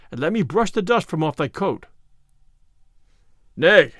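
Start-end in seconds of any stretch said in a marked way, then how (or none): 3.5-3.9 a short, irritated "Nay"; testy. A narrator's reading. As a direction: snap it out, annoyed. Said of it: "quoth Little John testily".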